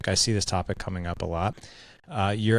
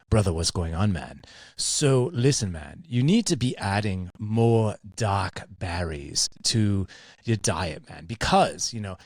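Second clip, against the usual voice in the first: a mildly put-on Kiwi accent, slowed on the berries; lightly faked New Zealand accent; bad New Zealand accent. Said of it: "I'm gonna butcher his accent".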